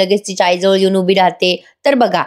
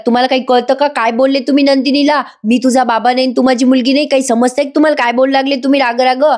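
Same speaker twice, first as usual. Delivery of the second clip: a touch of mock fury, slightly raised; imitating an angry wife; 3 semitones higher than usual. Wife scolds husband for disowning Nandini, mild mock fury. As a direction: confront him with half-acted anger. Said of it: "मानिनी ताई संतापून म्हणतात".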